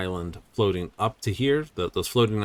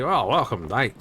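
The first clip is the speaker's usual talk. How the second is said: playful mock Aussie accent, a touch higher; 3 semitones higher, 3 dB louder than usual. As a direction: greet them like a cheery Australian, lightly hammed. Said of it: "had a heavy Aussie accent".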